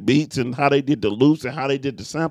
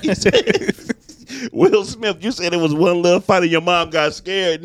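laughing; 5 semitones higher than usual. Retold or imitated. Laughing, teasing Will Smith.

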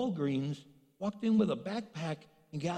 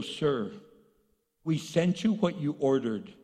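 imitated curt clerk's reply; customer service with a tone; 3 semitones lower, 3 dB louder than usual. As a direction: lightly mimic a clerk with attitude. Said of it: "you don't have to have a tone".

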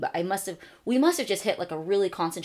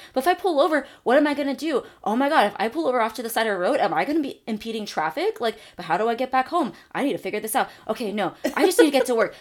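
higher, louder, racing panicked inner monologue; freaking out; 4 semitones higher, 4 dB louder than usual. Retold or imitated. Stoned driver panicking over pulling off the road, higher and louder. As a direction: spiral through the worries in a rush. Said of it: "and I'm freaking out".

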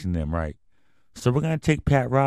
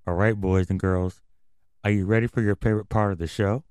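put-on overbright kids party host. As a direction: pump up the kids. Hypes audience like kids host.

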